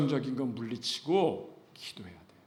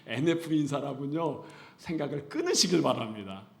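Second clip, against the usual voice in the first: ordinary talk, nothing marked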